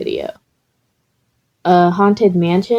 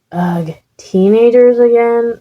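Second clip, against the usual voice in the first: grumbling ghost; 5 semitones higher, 4 dB louder than usual. Acted. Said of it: "the ghost grumbled".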